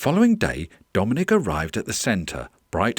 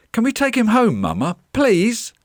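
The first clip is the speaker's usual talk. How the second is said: put-on high, loud child's begging; eager little boy pleading; 13 semitones higher, 5 dB louder than usual. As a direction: beg mum, drawing out the please. Boy begs his mum.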